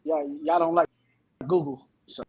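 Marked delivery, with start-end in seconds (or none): 1.5-2.2 chipmunk voice. Real, not acted. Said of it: "It's a chipmunk voice".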